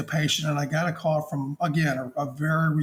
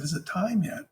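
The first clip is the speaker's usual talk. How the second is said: puzzled echo; 3 semitones higher than usual. Retold or imitated. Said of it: "And I paused for a second".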